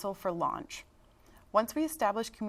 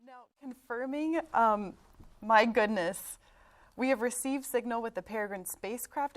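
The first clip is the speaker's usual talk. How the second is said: excited; 3 semitones higher, 5 dB louder than usual. Real, not acted. Signal confirmed live on air.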